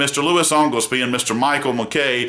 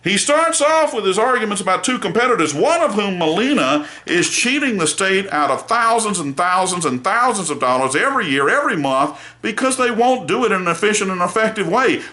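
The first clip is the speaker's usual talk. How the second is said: indignant lawyer; 6 semitones higher than usual. Retold or imitated. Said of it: "I am angry".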